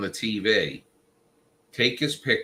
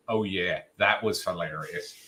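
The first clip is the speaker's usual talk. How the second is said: dry, sarcastic, low oh yeah; deadpan it like you don't mean it; flat sarcastic; 3 semitones lower, 3 dB quieter than usual. Retold or imitated. Imitating Adam's reply as dry sarcasm. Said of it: "if that's like this".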